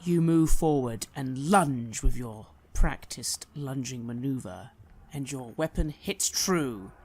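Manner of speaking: dramatic fantasy narrator, leaning on the action; storytelling game master; game master narration. Acted. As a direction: narrate the attack with relish.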